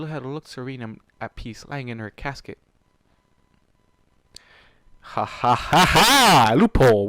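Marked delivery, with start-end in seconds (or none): 5.0-7.1 loud, slow cackling then shout; triumphant laugh. Real, not acted. Reader spotting a plot loophole, loud triumphant laughing. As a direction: crow over the twist.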